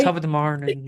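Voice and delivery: put-on stock stage-Irish greeting accent; offensive mock Irish. Host suggesting a line to guest, mock Irish accent. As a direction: lightly ham up an Irish accent. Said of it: "go, like, really offensive with it".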